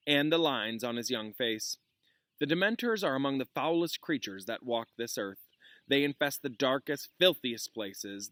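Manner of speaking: reading a novel aloud to a class; lively read-aloud, voicing the teacher's lines lightly; story narration. A narrator's reading.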